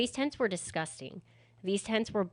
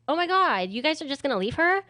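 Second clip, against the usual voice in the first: high, louder indignant camp voice; feminine guy; 6 semitones higher, 4 dB louder than usual. Retold or imitated. Feminine guy scolding the scared men, camp outrage. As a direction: scold the cowards in a flamboyant squeal. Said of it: "he was the more feminine guy".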